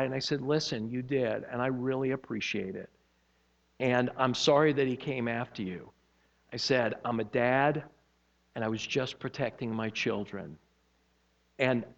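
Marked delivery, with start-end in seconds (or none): 0.4-10.6 low, soft, conciliatory; retold gentle apology, kept quiet and low; sincere reassurance. Retold calming apology to the man.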